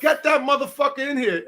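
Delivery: imitating an order; mock yell. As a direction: call him over gruffly. Ivan orders son in.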